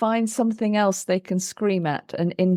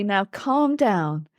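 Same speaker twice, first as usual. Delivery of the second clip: slow, gentle calming tone; soothing voice; 3 semitones higher, slower than usual. Shown as a demonstration. Therapist trying to calm a raging child, slow and soothing. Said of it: "if I come in with a soothing voice".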